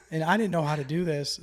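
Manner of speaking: laughing while talking. Real, not acted. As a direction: say it through a laugh.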